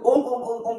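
"Om" repeated in quick, short monotone; rushed Om. Shown as a demonstration. Teacher showing what chanters never do, hurried "Om"s. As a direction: rattle off each "Om" without holding it. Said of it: "They will take proper time".

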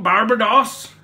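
"Barbados" with a short unstressed middle syllable, BAR-buh-doss. Shown as a demonstration. Telling where the cruise went, "Barbados" as BAR-buh-doss. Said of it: "I've been saying it wrong".

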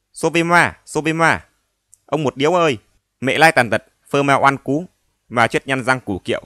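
shrill loud screaming; screaming wildly. Acted. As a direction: scream like someone being murdered. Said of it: "miệng la như người bị cắt cổ".

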